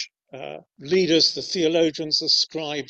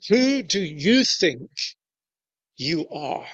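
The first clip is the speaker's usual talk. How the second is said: giving them credit. Shown as a demonstration. Leaders challenging Jesus, with weighty intent. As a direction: let the question land as a serious charge. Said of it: "but let's give them the credit".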